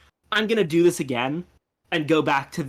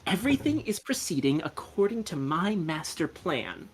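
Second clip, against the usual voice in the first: softer, measured note-taking delivery; taking dictation; 3 semitones higher, 5 dB quieter than usual. Acted. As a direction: say it as if writing each word down. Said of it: "supposed to be taking this down".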